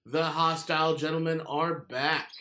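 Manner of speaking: booming circus ringmaster announcement; slow, grand showman intro. Acted. Podcast intro, circus-style announcement.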